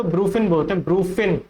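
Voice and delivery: "ब्रूफिन" as BROO-fin; common mispronunciation. Shown as a demonstration. Teacher quotes what many people say, mispronounced. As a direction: say "ब्रूफिन" short, without the opening eye. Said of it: "बहुत सारे लोग तो".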